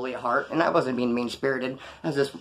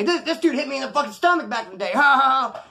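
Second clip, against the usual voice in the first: laughing brag; 8 semitones higher than usual. Retold or imitated. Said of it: "he'd say".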